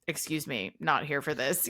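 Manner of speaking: coolly disengaged brush-off, softly begun. Retold or imitated. Everyone else to the creepy Harbinger, disengaged. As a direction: imitate someone who wants no part of it. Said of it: "just really disengaged from your creep factor".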